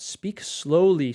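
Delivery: slow, drawn-out reading; reading viewer's request. Retold or imitated. Teacher reads a viewer's request slowly. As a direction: stretch it out, slowly. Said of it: "says Raquel".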